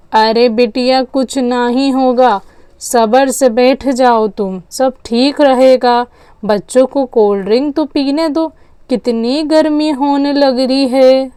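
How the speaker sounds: unhurried, mildly placating elder; reassuring grandmother. Acted.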